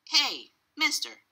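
high, sharp hail; calling out. A narrator's reading. Cashier stops the father leaving, calling out. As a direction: flag down a departing customer.

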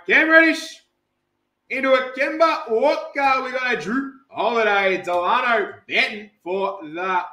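high start settling into a steady roll-call; lively card-break announcing; announcer call. Acted. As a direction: reel off the players like an MC.

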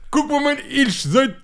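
high, laughing Moroccan German Santa; hammy Moroccan German Santa bragging; Moroccan German accent. Acted. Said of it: "Dann kommt der Weihnachtsmann".

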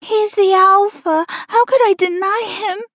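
high, tearful voice; tearful plea. A narrator's reading. Mistress excusing herself to the Luna, tearful. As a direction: beg forgiveness as tears fall. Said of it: "as tears began to fall".

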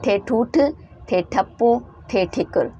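ठे ठूठ, ठे ठप्पो, ठे ठिकुर read with aspirated TH; letter drill. Shown as a demonstration. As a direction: model the words for the class. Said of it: "इसका sound बनेगा ठे".

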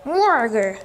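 drawn-out play monster growl. Pretend. Gamer announces the monster's voice, then does a monster growl. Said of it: "Voy a hacer la voz de monstruo".

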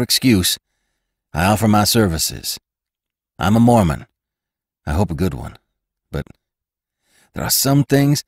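put-on loud, pleading young cowhand; earnest rider. A narrator's reading. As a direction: plead to be taken back, pushing hard. Narrator voices earnest rider Blake.

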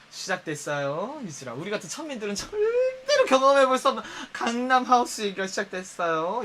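mock announcement. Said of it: "이걸 어떻게 태클 걸 거야".

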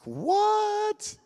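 sudden high startled yelp; stunned what. Retold or imitated. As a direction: jump up in disbelief at the news. Stunned reaction to Jesus appearing.

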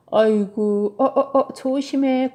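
alarmed warning. Acted. Tilly watches her bear climb onto the bed, alarmed warning. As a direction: cry out as someone starts to topple.

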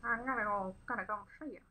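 put-on a light take on an actor in an old film. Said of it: "That's what it sounds like to me anyway".

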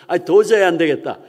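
loud, acted fed-up outburst; exasperated command. Bruce overwhelmed by noisy prayers, loud exasperated command. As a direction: call out the order to everyone.

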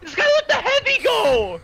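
frustrated shouting at the game; raging gamer. Real, not acted. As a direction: yell in real frustration. Losing a fight, raging.

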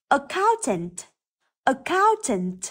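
Accountant with cc as hard k; careful model Accountant, clear k before the stressed vowel; hard K sound. Shown as a demonstration. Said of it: "cũng phát âm là âm". (phát âm Accountant với âm k rõ)

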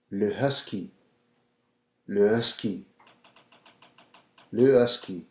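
Husky with a soft, barely breathed H; French Husky. Shown as a demonstration. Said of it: "the H is pronounced a little bit softer".

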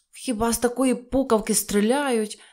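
indignant outburst; angry shout. A narrator's reading. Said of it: "сердито крикнув добродій".

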